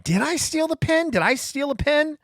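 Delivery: high, frantic second-guessing; a terrified new hire doubting himself, pitched high; panicked inner voice. Retold or imitated. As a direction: voice the rising panic of self-doubt. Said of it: "I remember in that moment thinking".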